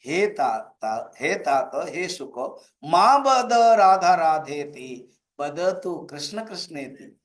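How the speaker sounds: slow, drawn-out chanted Sanskrit coaxing; affectionate coaxing. Acted. Radha teaching her pet parrot what to say, affectionately coaxing. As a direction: coax lovingly, lingering on each word. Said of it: "प्यार से राधा कहते थे".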